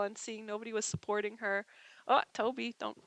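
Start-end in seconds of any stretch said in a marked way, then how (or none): 2.1-3.0 higher, louder sing-song pet scolding; talking to pet. Real, not acted. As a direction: playfully tell off a biting pet, pitch climbing. Talking to pet biting her.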